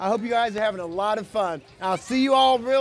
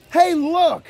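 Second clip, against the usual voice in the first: loud, higher burst of surprise; excited discovery; 4 semitones higher, 5 dB louder than usual. Acted. Reader showing kids a surprise in the book, excited shout. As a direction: point it out like a thrilling find.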